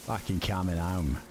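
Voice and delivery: mock London accent slipping into Australian; an Aussie-sounding stab at a London accent; accidental Australian accent. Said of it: "That sounds Australian".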